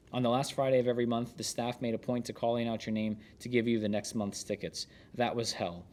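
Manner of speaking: steady, measured book narration; narrating from the page; memoir read aloud. Acted. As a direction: read the chef's memoir to listeners.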